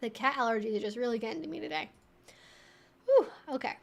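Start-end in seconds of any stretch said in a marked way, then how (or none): none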